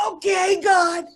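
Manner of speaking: high, loud, tearful call upward; shouting up at the sky, voice cracking; retold scream to the sky. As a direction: cry out to God, half reliving it. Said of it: "I'm screaming up to the sky".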